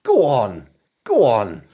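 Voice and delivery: high, fast coaxing landlady voice; coaxing barmaid. Acted. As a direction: wheedle him into tea. Lara coaxing.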